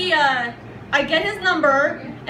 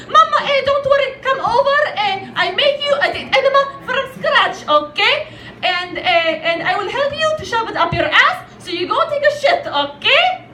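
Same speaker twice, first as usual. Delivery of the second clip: high Arab mother voice, insistently helpful; thick Arab accent; 5 semitones higher than usual. Acted. Mother offering constipated daughter a homemade remedy, thick Arab accent. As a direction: play the eager mom with a thick Arab accent. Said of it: "in her thick Arab accent".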